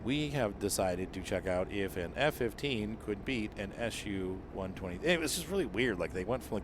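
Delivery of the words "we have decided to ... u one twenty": flat robotic narrator voice; lightly imitating a robotic narrator. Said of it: "like, robotic voice videos".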